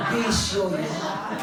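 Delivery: slow stress on bisyo; slow emphatic punchline. Acted. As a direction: drag out bisyo to land it. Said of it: "preaching punchline".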